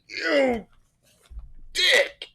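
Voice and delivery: high, indignant yell; angry shout. Acted. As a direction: shriek the insult at them. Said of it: "He's like".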